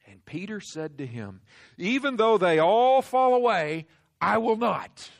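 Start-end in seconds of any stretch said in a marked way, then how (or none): 1.8-5.1 loud, high, boastful protest; Peter's cocky loud vow. Acted. Peter boasting to Jesus, loud and high.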